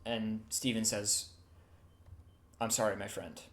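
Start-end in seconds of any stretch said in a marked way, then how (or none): 2.6-3.4 low, soft, regretful apology; hushed and lowered, sorry for what follows; subdued apology. Acted. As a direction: say it quietly, with finality. Steven's grave apology before attacking.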